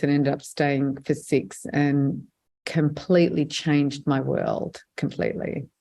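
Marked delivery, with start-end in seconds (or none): 5.0-5.7 whispered emphasis. Real, not acted. Repeats word for emphasis.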